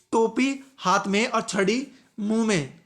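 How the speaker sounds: slow, "टोपी हाथ में" grouped, then "छड़ी मुंह में"; misplaced pauses. Shown as a demonstration. Teacher repeating the spoiled example, slow misplaced pauses. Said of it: "सिर्फ विराम चिन्ह इधर उधर करने से".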